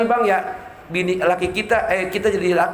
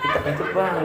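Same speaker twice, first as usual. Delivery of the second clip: shy wife confessing; 4 semitones lower, 4 dB quieter than usual. Acted.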